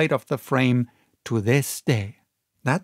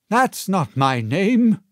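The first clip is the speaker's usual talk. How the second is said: 1 gruff denial; 5 semitones higher, 4 dB louder than usual. A narrator's reading. Captain denies name.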